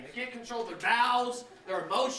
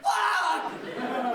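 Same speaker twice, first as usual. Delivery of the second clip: louder alarmed yelp; panicked curse; 5 semitones higher, 3 dB louder than usual. Retold or imitated. Dad scared baby hurt herself, alarmed yelp. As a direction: blurt it in sudden panic. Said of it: "I'm like".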